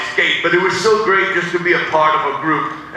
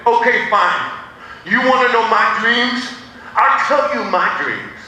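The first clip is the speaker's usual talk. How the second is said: frustrated; 6 semitones higher than usual. Retold or imitated. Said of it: "I got frustrated with her".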